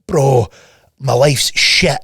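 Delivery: whispered, slow mock moaning; mock whiny complainer. Coach mocking a lazy client, whispered whine. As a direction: imitate a self-pitying slacker.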